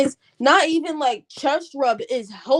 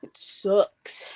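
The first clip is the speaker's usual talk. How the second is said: whispered; 4 semitones lower than usual. Real, not acted. Complaining about blocked nose.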